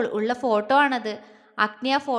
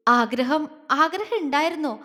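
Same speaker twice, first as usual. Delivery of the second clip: voice breaking; 2 semitones higher than usual. Acted. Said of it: "വാക്കുകൾ പലയിടത്തും ഇടറിപ്പോയി".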